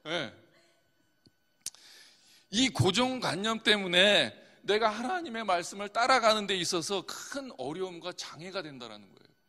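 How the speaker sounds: usual speaking voice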